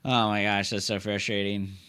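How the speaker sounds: low, quiet, worn-out groan; a defeated player sighing quietly; weary frustration. Real, not acted. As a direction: let it sink in with a tired sigh. Sighing over lost chance.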